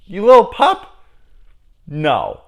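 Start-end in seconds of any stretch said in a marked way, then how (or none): 0.0-1.0 loud, high yelled question; mock yell. Shown as a demonstration. Mock-yelling the line, baffled at its weakness. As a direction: yell it in disbelief. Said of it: "Yelling that at them?".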